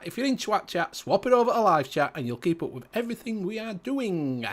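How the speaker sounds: broad, slowed Yorkshire accent played up for the show. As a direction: talk like a Barnsley lad greeting the viewers. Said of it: "That's proper Barnsley, lad".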